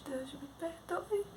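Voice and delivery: slow whispered plea for forgiveness; whispered prayer. Retold or imitated. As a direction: ask forgiveness under the breath. Pedido de perdão sussurrado. (sussurro lento pedindo perdão)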